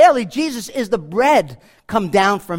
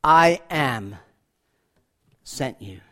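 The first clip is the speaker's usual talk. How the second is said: voice of God; 8 semitones lower, slower than usual. Acted. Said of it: "God speaking to Moses".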